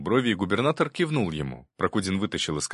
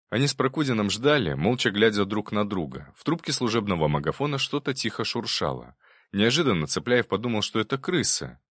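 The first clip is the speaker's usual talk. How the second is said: ordinary delivery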